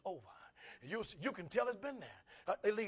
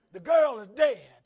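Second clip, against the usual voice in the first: louder, slow insistence; insistent mourners; 4 semitones higher, 16 dB louder, much slower than usual. Acted. Mourners insist she is dead.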